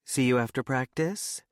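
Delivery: very high, gushing cheerleader squeal of delight; pom squad cheerleader. A narrator's reading. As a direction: put on a sugary, high-pitched cheerleader voice. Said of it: "her highest-pitched Pom Squad impression".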